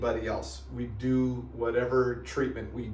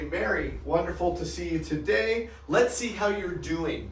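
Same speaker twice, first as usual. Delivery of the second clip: upbeat greeting; 5 semitones higher than usual. Shown as a demonstration. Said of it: "notice the terminology".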